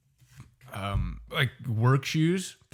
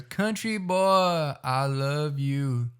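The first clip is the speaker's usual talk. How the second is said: Vine quote; 3 semitones higher, much slower than usual. Retold or imitated. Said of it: "it goes".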